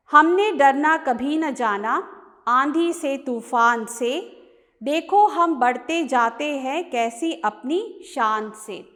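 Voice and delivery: measured Hindi verse reading with rhythmic line breaks; poem recitation. Acted. Teacher reading the short poem to students, poem recitation. Rereads first stanza aloud.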